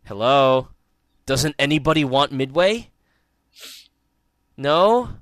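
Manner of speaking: mock auctioneer, hammed-up; half-hearted auctioneer pleading for bids. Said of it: "it was like this".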